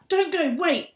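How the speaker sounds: loud, high pleading shout; desperate shout. Acted. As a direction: yell after someone leaving. Kat chasing the bus.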